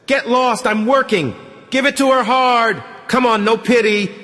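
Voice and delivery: high loud pleading cries; loud begging. A narrator's reading. The girl begging the men to lash her, loud and pleading. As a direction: beg them to hit harder, at full voice. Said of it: "she begs".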